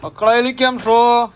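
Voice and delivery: teasing needling. Real, not acted. Man pesters irritated partner on camera, teasing. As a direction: needle them, drawing the question out.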